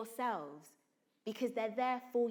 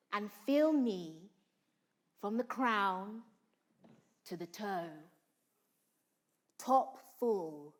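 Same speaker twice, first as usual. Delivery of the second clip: slow, brooding Shakespeare delivery, lower and dark; Lady Macbeth; 4 semitones lower, slower than usual. Acted. Actor performing Lady Macbeth for the class, slow and dark. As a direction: summon the spirits, deliberate and menacing. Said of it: "I'm gonna try and perform this for you".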